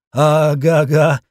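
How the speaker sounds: slow, strangled moan; mutant groan. A narrator's reading. Wounded mutant moans in answer to the hero, slow strangled groan. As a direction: groan it out like a half-dead creature. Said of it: "простонал мутант".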